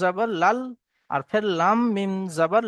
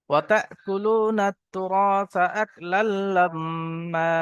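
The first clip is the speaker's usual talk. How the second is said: slow drawn-out melodic chant; Quran recitation; much slower than usual. Acted. Teacher reciting the verse for students, slow melodic chant. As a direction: intone it slowly, stretching the vowels.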